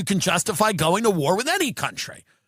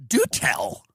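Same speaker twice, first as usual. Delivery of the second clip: low, dry mock interest; sarcastic do tell; 10 semitones lower than usual. Comic mocking a friend, low dry sarcasm. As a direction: say it like a bored aside. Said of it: "I go".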